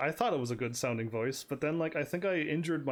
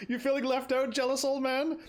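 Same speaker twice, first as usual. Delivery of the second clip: put-on teasing old man; 11 semitones higher, 4 dB louder than usual. Teasing old master in game.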